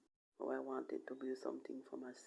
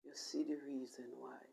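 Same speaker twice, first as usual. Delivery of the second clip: hushed, breathy plea to God, half-voiced; whispered prayer. Retelling her prayer to God, whispered and pleading. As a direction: pray it under the breath, imploring.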